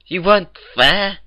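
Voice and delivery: lightly voiced Twilight pleading reason. A narrator's reading.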